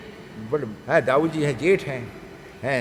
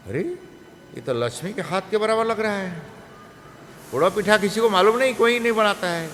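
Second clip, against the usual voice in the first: high, fast delight over the food; amazed praise; 6 semitones higher than usual. Acted. Balaram, amazed, praises the special pitha in a high, quick voice. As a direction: marvel at the taste, quick and raised.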